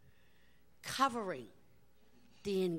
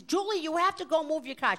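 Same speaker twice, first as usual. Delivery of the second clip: mock hysterical laugh; 8 semitones higher, 4 dB louder than usual. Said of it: "The woman is laughing hysterically".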